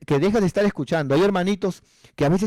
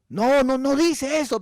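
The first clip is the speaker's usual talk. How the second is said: high, stretched-out denial; mock backpedalling; 10 semitones higher, slower than usual. Brother admitting the text is missing, mock protesting. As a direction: parody a cornered debater's protest. Mimics brother conceding, still objecting.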